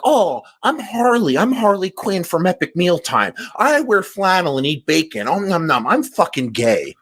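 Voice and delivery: a lightly voiced mocking caricature of Harley; mocking impression. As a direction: mimic a YouTuber mocking Harley in a silly put-on voice. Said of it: "and he's like".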